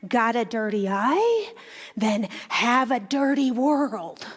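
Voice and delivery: put-on light Jewish Russian accent, slowing on the second line; a grandmother's Jewish Russian accent, lightly put on; gently voiced Jewish Russian accent, wry and knowing; thick Jewish Russian accent. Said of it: "she said in her thick Jewish Russian accent".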